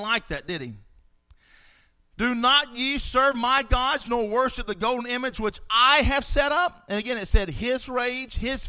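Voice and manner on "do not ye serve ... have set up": furious king's shout. Acted. Nebuchadnezzar shouting at Shadrach, Meshach and Abednego, furious. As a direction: roar it as a furious king.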